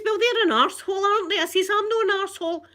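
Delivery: high, loud indignant retort; raging. Retold or imitated. Customer answering engineer's flood story, raging. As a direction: re-enact a furious comeback. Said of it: "I was absolutely raging".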